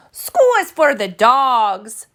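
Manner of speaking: slow, emphatic mother cat; a lightly voiced firm mama. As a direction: lay down the law, word by word. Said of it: "stated Mama Junebug Jones emphatically".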